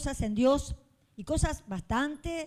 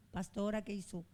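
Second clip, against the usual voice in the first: hushed shocked question; 5 semitones lower, 11 dB quieter than usual. Retold or imitated. Shocked brothers voiced by pastor.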